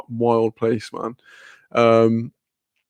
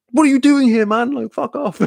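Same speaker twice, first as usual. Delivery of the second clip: very high, incredulous squeal of words; retold fan outburst, pitched way up; really stoked; 11 semitones higher, 4 dB louder than usual. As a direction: act out thrilled disbelief, breaking into laughter. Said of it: "I was, like, really stoked".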